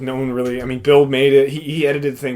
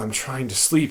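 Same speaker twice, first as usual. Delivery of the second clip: imitated exhausted, super tired voice, quieter; 7 dB quieter than usual. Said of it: "super tired".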